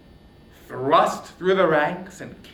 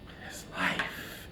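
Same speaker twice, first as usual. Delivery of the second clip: whispered threat; 8 dB quieter, slower than usual. Acted.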